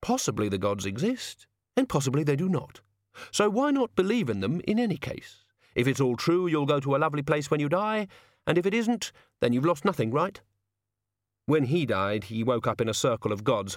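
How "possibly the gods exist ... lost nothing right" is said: philosopher voice. Acted. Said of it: "who said".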